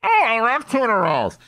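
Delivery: lightly voiced friend raving over tuna; voice on the speakerphone. Caller answering the diner's speakerphone, lightly gushing. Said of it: "and you hear".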